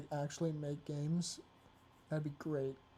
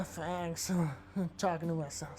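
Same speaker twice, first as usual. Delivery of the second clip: ordinary talk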